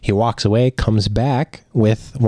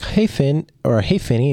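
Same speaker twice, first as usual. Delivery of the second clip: put-on girl's greeting; 6 semitones higher than usual. Girl greeting him at school.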